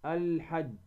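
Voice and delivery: "الحج" with the L of "ال" sounded and held; lam pronounced clearly. Shown as a demonstration. Tajwid teacher giving an example, clear L in "الحج". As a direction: give "الحج" a distinct L. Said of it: "نظهر هذه اللام".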